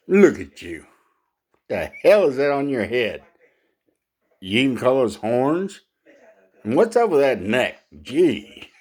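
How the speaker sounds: lightly voiced scornful lion; proud lion. Proud lion ridiculing a giraffe's looks, lightly scornful.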